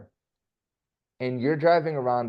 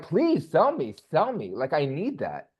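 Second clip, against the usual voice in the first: eager plea; 4 semitones higher, slower than usual. Retold or imitated. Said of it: "they're like".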